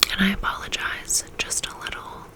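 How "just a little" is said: softer echo. Shown as a demonstration. Narrator echoing their own apology, a fading softer whisper. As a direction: whisper "Just a little." again, fading and much softer.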